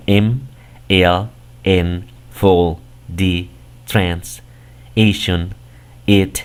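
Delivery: each affix said alone in English; English affixes. Shown as a demonstration. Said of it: "por ejemplo, el primero". (prefijos y sufijos en inglés)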